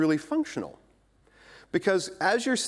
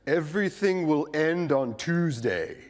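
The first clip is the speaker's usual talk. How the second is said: ominous doom prophet; 2 semitones lower, slower than usual. Retold or imitated. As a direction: intone it like a gloomy prophet. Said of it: "basically said".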